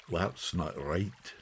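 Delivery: put-on slow, soft old man's objection; quietly doubtful, drawn out; shepherd's objection. A narrator's reading.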